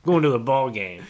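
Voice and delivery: loud snapping dad; angry dad shout. Retold or imitated. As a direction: bark it at the kid.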